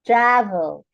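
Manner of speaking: "Travel" with "Tra" strong, "vel" falling away; stress on first syllable. Shown as a demonstration. Teacher contrasting it with control, stress on "Tra" in "Travel". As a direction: put the weight on "Tra" in "Travel". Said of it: "The stress is on the first syllable".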